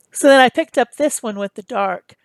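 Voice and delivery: talking through a yawn. Real, not acted. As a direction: yawn while saying it. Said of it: "Sorry about the yawning".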